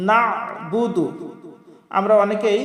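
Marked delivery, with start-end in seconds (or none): 0.1-1.0 slow "নাবুদু", NA pressed from mid-throat; throaty ayn. Shown as a demonstration. Teacher modelling the ayn, slow throaty recitation. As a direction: squeeze the ayn after "না" in "নাবুদু". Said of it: "চাপ দিয়ে হলকের মধ্যখান থেকে".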